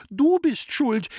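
put-on boy yelling through tears; crying child's shout. A narrator's reading. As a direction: scream the blame like a sobbing boy. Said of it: "hat immer geschrien".

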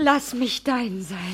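slow, loud, rapturous plea; fervent plea. Acted. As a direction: beg to belong, stretching the words. Begs to be his.

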